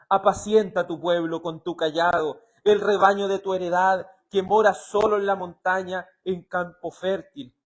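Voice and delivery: loud, projected scripture reading; lectura bíblica. Acted. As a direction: proclaim the verse to the congregation. Reads scripture aloud. (lectura bíblica en voz alta y firme)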